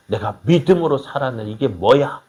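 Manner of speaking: understated grumble of a let-down believer; mock complaint. 실망한 신자의 불평을 흉내. (억누른 듯 가볍게 투덜대는 말투)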